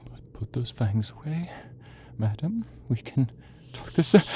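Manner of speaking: rising frightened plea; panicked pleading. Acted. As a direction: stammer a plea as fangs approach. Villain pleads as vampire nears.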